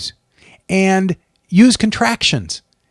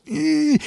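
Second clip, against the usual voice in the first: warm-up grimace; 12 semitones higher than usual. Shown as a demonstration. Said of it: "get ready to go on camera like this".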